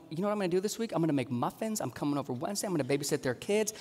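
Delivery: hushed imitated inner resolve; inner thought. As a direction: quietly plot the week in your head. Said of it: "They're praying and going".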